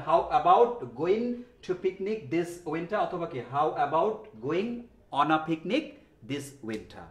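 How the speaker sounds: slow, deliberate teacher read; slow model sentence. Shown as a demonstration. Teacher giving the final correct sentence slowly. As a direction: lay it out slowly for copying. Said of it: "in দেওয়ার কোনো দরকার".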